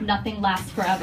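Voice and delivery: deadpan Boston mom, long pauses; thick Boston accent. Retold or imitated. Mom on her sick husband, grave thick Boston accent. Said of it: "in her thick Boston accent".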